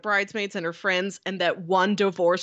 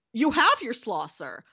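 lightly voiced counter worker, raised pitch; 2 semitones higher than usual. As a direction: answer the customer back, dropping off on "sir". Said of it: "the counter service worker says".

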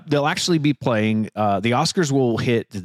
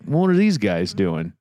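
slow, lower mock listener voice; imagined accidental listener; 5 semitones lower, slower than usual. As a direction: lightly play a puzzled stranger, slowly. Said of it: "is that their, how they talk".

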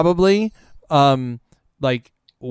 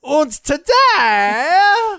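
put-on silly Austrian accent; 10 semitones higher, much slower than usual. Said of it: "We are using silly accents".

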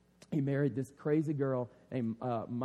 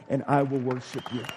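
louder, proclaimed vow; bold declaration; 2 semitones lower, 6 dB louder than usual. Acted. David proclaiming worship to God, loud declaration. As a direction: declare it boldly before the nation.

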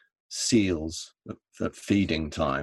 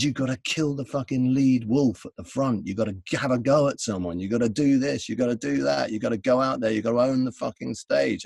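higher, driving retold instructions; insistent, hammering list of commands; urgent pep talk; 5 semitones higher, 3 dB louder than usual. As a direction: rattle off orders like a fired-up coach. Crew's retold fired-up pep talk.

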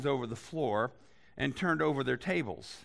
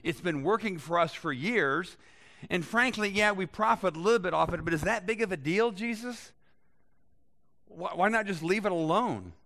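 a hint of smug priests, rising higher and louder; defensive religious leaders; 4 semitones higher, 3 dB louder than usual. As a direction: play the leaders brushing Jesus off. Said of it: "In other words".

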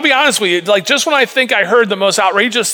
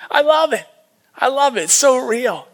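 laughing delight, pitched up; 4 semitones higher than usual. Real, not acted. Pastor laughing at Elijah's taunt, delighted. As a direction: laugh it out with glee.

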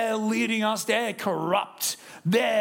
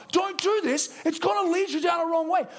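voicing God's warning; 9 semitones higher than usual. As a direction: call out the warning like a parent. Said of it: "does God not say to us".

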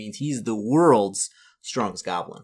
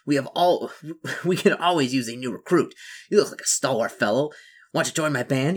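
lightly voiced goblin chief, raised pitch; goblin king; 4 semitones higher, 3 dB louder than usual. Goblin king invites newcomer into his band, light goblin voice. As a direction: recruit them with a hint of goblin voice.

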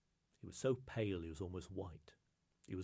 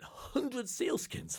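higher, slow astonished question; 5 dB louder, slower than usual. Acted. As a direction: stretch it out in disbelief. Angus astonished at request.

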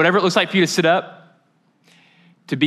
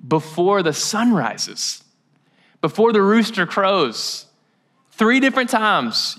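solemn prophecy; 4 semitones higher, slower than usual. Retold or imitated. Jesus foretells Peter's denial.

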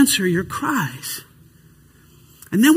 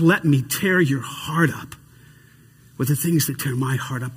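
soft voice of God; 9 semitones lower, 5 dB quieter than usual. Acted. God's voice, softened.

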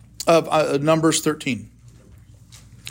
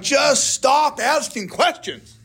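mock exasperation; slower than usual. Fed up with someone's endless questions.

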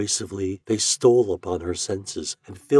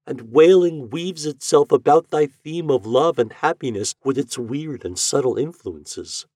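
Eloise's wonder; 6 semitones higher than usual. A narrator's reading. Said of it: "murmured Eloise".

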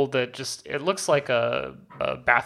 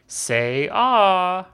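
higher, louder cocky quip; hero taunt; 7 semitones higher, 6 dB louder than usual. Retold or imitated. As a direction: tease the monster with a cocky quip. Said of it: "and he says".

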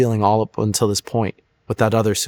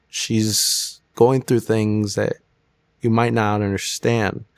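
soothing voice; slower than usual. Retold or imitated. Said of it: "that soothing voice again".

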